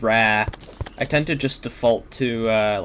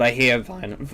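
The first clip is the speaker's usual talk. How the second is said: voice crack. Real, not acted. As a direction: voice cracking on vinyl. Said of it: "nice voice crack".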